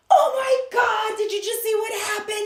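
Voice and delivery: put-on high squealing girlfriend voice; excited. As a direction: gush it like a stunned friend. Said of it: "they're like".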